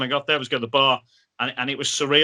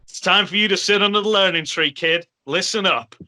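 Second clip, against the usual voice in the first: put-on veteran telling the kid; 5 semitones higher than usual. Brian Knobbs telling the young fan to listen up, mild mock mentor voice. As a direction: lay it on like an old pro schooling a rookie.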